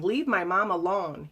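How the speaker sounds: put-on a mild, slow child's shout; retold child's shout. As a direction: call out to protect mom, not full force. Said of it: "Miranda began shouting".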